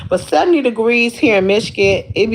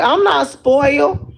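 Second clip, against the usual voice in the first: higher, slow mock-indignant denial; playful protest; 5 semitones higher, slower than usual. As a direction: whine it back like a pouting girlfriend. Protesting boyfriend's teasing.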